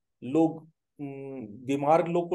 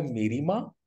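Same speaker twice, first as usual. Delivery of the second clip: amazed, voice climbing sharply at the end; astonished question. Retold or imitated. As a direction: ask it in disbelief with a rising lilt. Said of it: "विस्मय से पूछा". (विस्मय से पूछते हुए)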